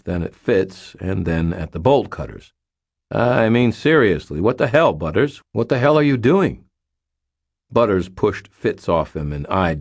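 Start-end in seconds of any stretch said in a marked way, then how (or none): 3.1-6.7 raised, louder incredulous demand; exasperated disbelief. A narrator's reading. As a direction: demand an explanation, pitch jumping on key words. Daniel confronts Butters in exasperated disbelief.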